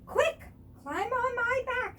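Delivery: urgent. A narrator's reading. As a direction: hurry them along. Bear urgent.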